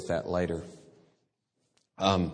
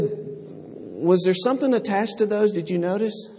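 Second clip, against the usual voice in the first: God asking gently; 9 semitones higher than usual. Pretend.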